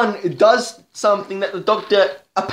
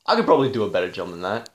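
mock writer; 9 semitones lower, 4 dB quieter, much faster than usual. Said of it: "was all like".

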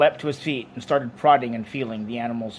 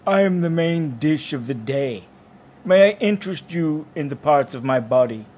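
louder creature voice, offering itself; genial dairy animal; 3 semitones higher, 6 dB louder than usual. Acted. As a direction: present yourself proudly as the dish of the day.

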